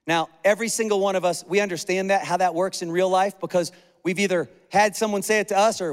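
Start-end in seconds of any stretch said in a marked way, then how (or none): none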